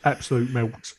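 jokey Cockney shout; bad Cockney accent. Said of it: "putting bad Cockney accents aside".

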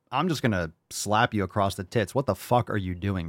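usual speaking voice

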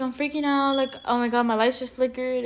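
understated imitation of freaking out; retold freak-out. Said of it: "I was, like, freaking out".

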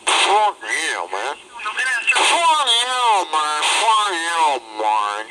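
high-pitched, furious yelling at the caller; he snaps, voice jumping way up; angry outburst. Real, not acted. Shouting at caller insulting West Coast.

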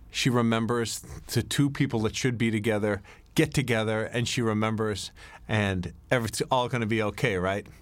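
lightly acted happy-ending build-up; mock hopeful. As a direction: build false hope for the audience. Sets up false happy ending.

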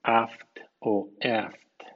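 aft stretched very slowly, twice; slow English demo. Shown as a demonstration. Teacher spelling out the aft sound slowly for students. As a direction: draw out aft like a model sound. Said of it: "O bien".

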